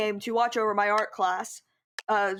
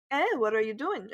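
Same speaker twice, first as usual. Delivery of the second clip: mock mean teacher challenge, near usual pitch; curt "eh" before a mock accusing question. Teacher catching student in class, mock mean. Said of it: "so mean like that".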